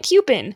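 "coupon" with a reduced "pin" ending; imitated pronunciation. Quoting friend back to her, "coupon" as KYOO-pin. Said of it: "you said they give you".

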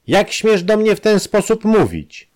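high, loud indignant shout. Acted. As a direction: cry it out, outraged professor. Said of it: "krzyknął Warden".

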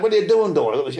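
high-pitched urgent question, dropping on the name; retold alarmed demand. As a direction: imitate an alarmed challenge. Retold confrontation with knife attacker.

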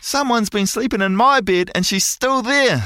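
put-on squealing Baby Bear. A narrator's reading. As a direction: squeal it like a startled little cub. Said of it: "squeals Baby Bear".

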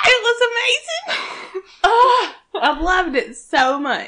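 high fangirl squeal into laughter; gushing excitement. Real, not acted. Fangirling with a friend over the Hillywood parody, gushing. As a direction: squeal it, overcome with delight.

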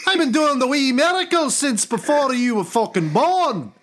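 put-on high, blustering, outraged Scottish accent; Scottish God. God telling Sonny off about miracles, outraged Scottish accent. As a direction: scold like an irate, hammed-up Scotsman. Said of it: "I don't know why God is Scottish".

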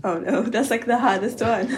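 laughing protest. Real, not acted. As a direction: laugh through it. Laughs at Egyptian test.

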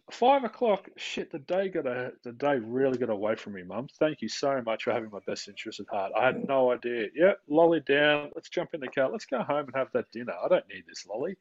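put-on high, bright start, then a reasonable grown-up kid's voice; lightly spoof a child calmly agreeing; mock enlightened child. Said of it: "If that child went".

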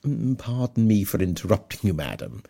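a lightly voiced pompous parson; a hint of the self-important clergyman; pompous Mr Collins. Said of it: "cried Mister Collins".

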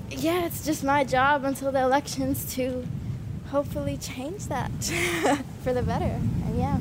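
breathless from walking uphill; out of breath. Real, not acted. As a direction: talk between short breaths. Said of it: "Sorry, I'm out of breath".

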